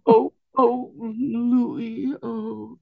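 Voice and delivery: high, far, teary imitation of a girl; girl friend on the phone, mock weeping high. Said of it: "listen to them weep".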